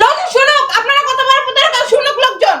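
indignant, for the whole room to hear; heated, defiant accusation; defiant outrage. Acted. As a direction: denounce them publicly. Defies plea to keep quiet.

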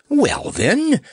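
high sniffly start; mild sniffling bird. A narrator's reading. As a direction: sniffle then speak. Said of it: "sniffled Snorer".

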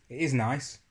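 talking while eating; speaking between spoonfuls; mouth full of yogurt. Real, not acted. Seen 5: spoon at mouth to +2.0, then holds tub with spoon away.

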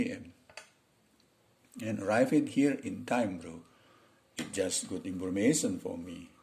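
slow, deliberate model conversation; English dialogue read for learners. Acted. Teacher acts out two coworkers discussing the train, slow demo dialogue.

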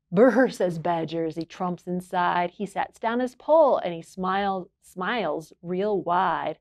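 gentle storybook read-aloud; reading to children. A narrator's reading. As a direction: read it like bedtime story time. Reads a picture book aloud.

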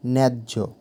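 ন্যায্য with the weight on ন্যা, the second syllable light; stress on first syllable. Shown as a demonstration. Teacher showing students where ন্যায্য takes its stress, pressing ন্যা. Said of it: "এখানে ন্যা অক্ষরের ওপরে শ্বাসাঘাত হচ্ছে".

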